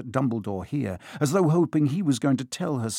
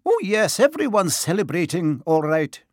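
higher, tart and impatient witch; impatient McGonagall, pitched up; 5 semitones higher, 4 dB louder than usual. Acted. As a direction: snap it out, fed up and higher. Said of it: "she said impatiently".

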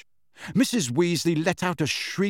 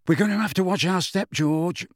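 fast, higher mock fear; mock trembling; 6 semitones higher than usual. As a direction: pretend to be scared. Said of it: "pretending to tremble".

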